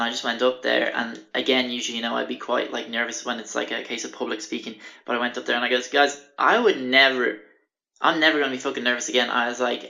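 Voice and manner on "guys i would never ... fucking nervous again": louder, confident announcement; mildly mock bold proclamation; defiant declaration. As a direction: declare it boldly to the crowd. Bold talk before screening.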